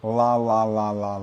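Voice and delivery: la with a dark L from the back of the tongue; American dark L. Shown as a demonstration. Teacher models the American dark L. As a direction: swallow the L in la. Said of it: "prononcés avec le derrière de la langue".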